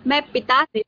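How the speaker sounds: slow, drawn-out verse; poem recitation. Acted. Teacher quotes poem's ending to student, poem recitation. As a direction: recite it phrase by phrase, with a long pause midway. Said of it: "कविता के अंत में वो कहते हैं".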